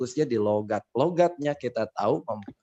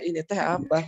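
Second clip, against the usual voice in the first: Sundanese speaker asking, pitched up; lightly acted Sundanese question, higher; 5 semitones higher than usual. Sundanese speaker asking a Javanese person, lightly acted accent. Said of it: "Saya nanya".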